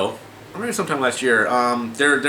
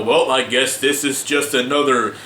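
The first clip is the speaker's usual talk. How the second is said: mock critic; slower than usual. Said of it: "some people might watch the video and go".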